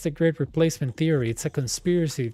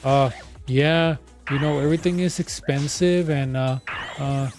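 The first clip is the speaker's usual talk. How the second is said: mock rambling supporter; 3 dB louder than usual. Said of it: "this nonsense ramble of".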